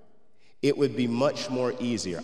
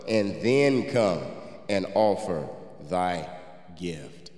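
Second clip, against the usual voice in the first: scripture reading. Acted. Preacher reading scripture to the church, solemn and measured. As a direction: read the verses out to the congregation with weight.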